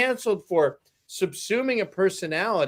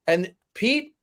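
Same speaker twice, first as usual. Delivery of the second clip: normal talking voice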